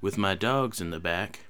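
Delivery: lightly voiced McConaughey drawl. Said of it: "let me see Matthew McConaughey here".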